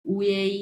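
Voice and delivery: ওয়েই said as a clear two-part glide, oo-ay; model pronunciation. Shown as a demonstration. Tutor models ওয়েই for the student to repeat. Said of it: "এটা উচ্চারণ হবে ওয়েই".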